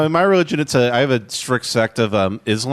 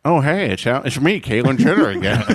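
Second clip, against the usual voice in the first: Caitlyn Jenner. Acted. Celebrity greeting everyone once more, joke impression. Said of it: "Every impression I do is Caitlyn Jenner".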